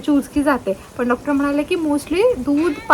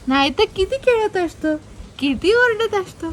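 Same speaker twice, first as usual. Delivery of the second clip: put-on teasing baby talk; 4 semitones higher than usual. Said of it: "teasing baby like daddy".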